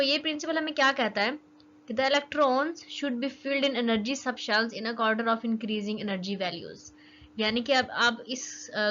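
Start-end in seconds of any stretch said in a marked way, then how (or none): 1.9-6.9 slow dictation. Shown as a demonstration. Reading out the rule's definition.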